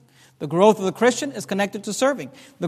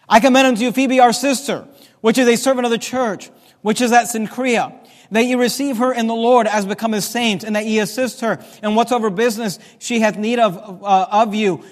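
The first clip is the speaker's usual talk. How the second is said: raised, projected pulpit reading; scripture reading; 3 dB louder than usual. Acted. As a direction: read the verse out to the congregation. Reads scripture aloud to congregation.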